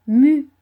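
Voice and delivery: Mu said loud as one syllable; sounding out words. Shown as a demonstration. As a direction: stress Mu alone. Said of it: "syllabe par syllabe".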